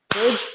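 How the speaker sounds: "Fridge" sounded out as a separate beat; syllable demonstration. Shown as a demonstration. Teacher counting syllables for the class, sounding out "Fridge". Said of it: "has how many syllables".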